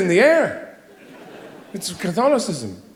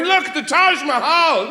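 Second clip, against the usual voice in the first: slow, high proud unveiling; excited; 9 semitones higher, slower than usual. Retold or imitated. Hobbyist emerging from the shed after three days, proud unveiling. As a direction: present it like a masterpiece.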